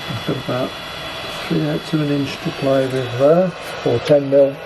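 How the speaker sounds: speaking through a protective mask; muffled, behind a full face shield. Real, not acted. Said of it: "My apologies for the slightly muffled commentary".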